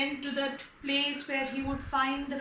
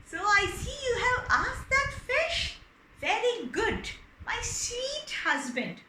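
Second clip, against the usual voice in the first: high, slowing on my sweet husband; wife purring praise; lightly voiced pleased wife; sweet-talking wife; 6 semitones higher than usual. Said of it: "She said".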